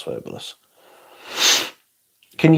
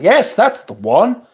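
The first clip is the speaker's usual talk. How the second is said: squeaky praise; 10 semitones higher, slower than usual. Acted. High voiced praise.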